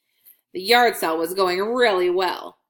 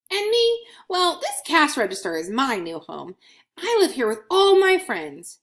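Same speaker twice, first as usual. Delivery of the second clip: higher, cosy little coin musing; content coin Scratch; 4 semitones higher than usual. Acted. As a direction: settle happily into the new home. Coin voiced in children's story.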